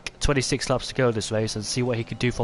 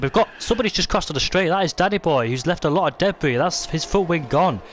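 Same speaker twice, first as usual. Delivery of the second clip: excited; 4 semitones higher than usual. Real, not acted. Sudden crash, debris on straight.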